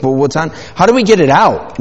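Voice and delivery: put-on excited kids. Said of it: "They're like".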